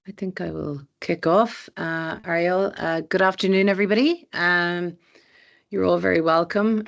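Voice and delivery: hoarse, croaky laryngitis voice. Real, not acted. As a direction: speak through a croaky sore throat. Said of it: "please excuse my croaky voice".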